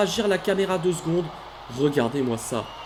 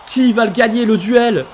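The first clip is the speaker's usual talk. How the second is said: louder, higher hyped calls; rising excitement; 5 semitones higher, 8 dB louder than usual. Real, not acted. Commentator hyping up the final ladder duel, excited. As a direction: build the tension of the duel.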